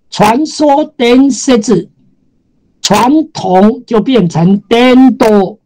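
"伝説" and "伝統" read slowly; slow pronunciation demo. Shown as a demonstration.

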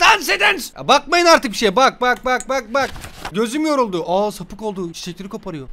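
high falsetto chatter, easing off in volume; annoying put-on voice. Babysitter hamming up the story, silly falsetto. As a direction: babble in a silly high voice, fading. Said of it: "çocuk çok rahatsız oldu galiba bu sesimden".

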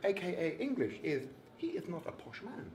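lightly voiced Eubank holding court; Chris Eubank impression. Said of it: "Chris Livingstone Eubank".

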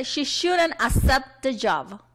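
slow, careful classroom model sentence; deliberate teacher reading; read-along model. Shown as a demonstration. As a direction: draw it out so learners can repeat. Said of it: "vamos todos juntos a leer las oraciones".

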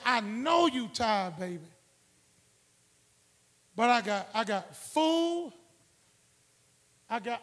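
soft, slow wife's voice offering food; tender wife. Retold or imitated. Wife comforting her tired husband, soft and slow. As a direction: coax him gently, lightly voiced. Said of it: "My wife looked at me and said".

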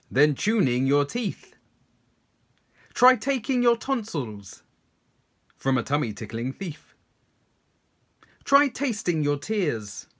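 crisp tongue twister lines, lively starts falling away; tongue twister recital. Shown as a demonstration. Presenter leads viewers through a tongue twister, crisp recital. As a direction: recite each line clearly for repeating.

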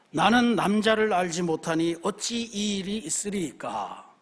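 slow, drawn-out scripture plea; mildly voiced lament of Mary; plaintive appeal. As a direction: read it as a measured protest, slowly. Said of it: "하소연이요, 탄원입니다".

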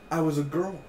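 high, giddy squeal of joy; delighted fan squeal. Real, not acted. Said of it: "happy as a little girl".

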